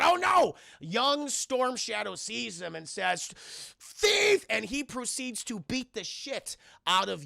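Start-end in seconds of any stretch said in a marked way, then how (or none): 0.0-0.5 high, loud theatrical dismay; hammed-up oh-no; mock alarm. 3.8-4.5 put-on high, loud child's cry; shrieked one-word alarm; mock accusing shout.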